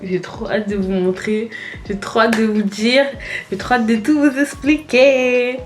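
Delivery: bubbly and overexcited; too eager to hold it in. Real, not acted. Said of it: "je suis surexcitée".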